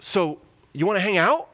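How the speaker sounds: rising, eager and awkward; nervous invitation to hang out; a hint of a fumbling, overeager guy; awkward Peter. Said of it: "he's like".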